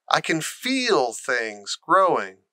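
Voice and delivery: gasped. Acted. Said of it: "he gasped".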